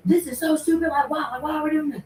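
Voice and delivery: high, whiny mock teen complaint; squeaky imitation of griping kids; mocking whiny students. Mimicking her students whining at her in class. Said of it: "yelling at me".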